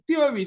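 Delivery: Theory said with th, not t; TH sound demo. Shown as a demonstration. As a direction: say Theory with a clear th. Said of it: "So T H sound".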